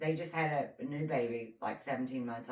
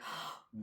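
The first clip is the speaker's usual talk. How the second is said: mock gasp; 10 dB quieter than usual. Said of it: "just acting like a, a fool".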